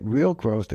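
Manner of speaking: emphasis on the word "real" before "growth"; stress on real. Real, not acted. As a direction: lean on "real" to set it apart from nominal. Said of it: "I emphasize the word real".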